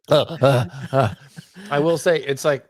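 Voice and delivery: slow, chewing while talking; words round a bite of food; mouth full. Real, not acted. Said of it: "just chew your food".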